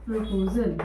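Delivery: long pauses between single words; word-by-word dictation. Shown as a demonstration. Teacher dictating word by word so children can write. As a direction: give it one word at a time for writing. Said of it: "dictating word by word".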